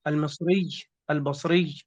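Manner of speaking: المصري، البصري with heavy doubled y endings; doubled final ya. Shown as a demonstration. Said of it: "هي مثقلة".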